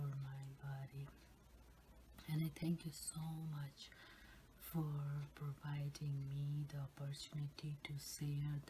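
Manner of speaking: soft prayerful whisper. Real, not acted. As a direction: pray in a hushed whisper. Whispered grace before eating.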